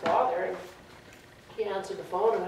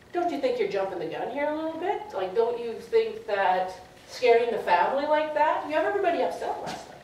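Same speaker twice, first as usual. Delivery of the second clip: retold reproach, higher and pressing; scolding cousin; 4 semitones higher than usual. Cousin blaming her for scaring the family, high reproach. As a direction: push the accusation, pitch climbing.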